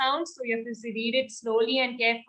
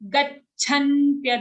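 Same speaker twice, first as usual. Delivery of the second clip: Gacchantya with extra force on ga; stress on ga; 3 semitones higher, 4 dB louder, much slower than usual. Shown as a demonstration. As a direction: push hard on the ga of Gacchantya. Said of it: "more force on ga".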